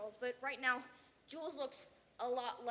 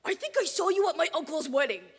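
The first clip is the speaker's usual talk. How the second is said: louder, chirpy quoted line; mock stranger remark; 3 semitones higher, 12 dB louder than usual. Imitating a stranger who mistakes them, louder. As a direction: toss off a clueless stranger's line.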